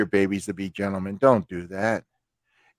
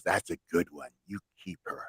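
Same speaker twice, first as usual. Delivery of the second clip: low, soft motherly advice; imitating a mom confiding in her son; quietly earnest, pitched down; mother's approval; 3 semitones lower, 5 dB quieter than usual. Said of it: "She goes".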